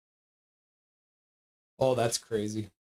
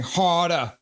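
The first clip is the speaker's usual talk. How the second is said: light mock Brooklyn accent, a bit louder; 3 semitones higher, 3 dB louder, much slower than usual. Quoting the movie for chat in a mild Brooklyn accent. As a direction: toss off a Brooklyn "harder, harder" as a quick impression. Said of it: "in that Brooklyn accent".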